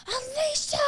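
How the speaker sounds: high-pitched mock scream of a name; yelling. Retelling a girl calling out near the bar, mock yelling. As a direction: imitate a call from across the room. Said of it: "like, yelling my name".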